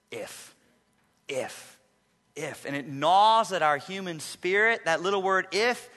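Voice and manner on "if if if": If said alone, soft and heavy; If, If, If, quiet and slow; stress on if. Shown as a demonstration. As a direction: drop each If like a weight. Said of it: "a two-letter word that still eats at us".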